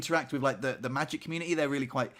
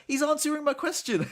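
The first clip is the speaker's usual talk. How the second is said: squealed high with giddy joy; bursting with excitement about the reply; giddy, thrilled squeal; 12 semitones higher than usual. Retold or imitated. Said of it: "quite giddy".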